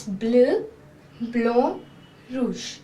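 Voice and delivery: bleu, blanc, rouge said bluh, blahn, roozh; French colours. Shown as a demonstration. Teacher naming the flag colours in French. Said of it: "and in French it's".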